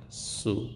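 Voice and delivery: سو alone, a brief soft "su"; short u vowel. Shown as a demonstration. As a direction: isolate سو as a short, quiet syllable. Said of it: "اوی کوتاه".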